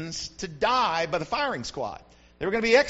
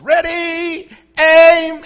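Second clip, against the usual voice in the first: shouted high, loud firing-squad order; general's command; 8 semitones higher, 13 dB louder, much slower than usual. Retold or imitated. General yelling at his firing squad, loud shout.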